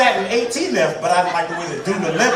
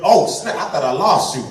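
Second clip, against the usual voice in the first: mock smug driver; 5 dB louder than usual. Mock driver meeting at light.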